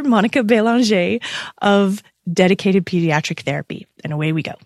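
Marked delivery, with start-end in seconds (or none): 0.0-1.2 Belanger said the French way, bay-lahn-zhay. Shown as a demonstration. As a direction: Belanger the Quebec way. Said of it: "as I would say it".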